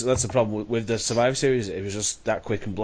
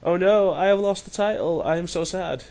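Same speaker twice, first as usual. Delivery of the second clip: high-pitched, hammed-up whimper of a sad loser; mock crying; 7 semitones higher than usual. Mocking a champion crying on his back, high hammed-up sob voice. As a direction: whine it like a fake-crying baby. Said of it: "He's like".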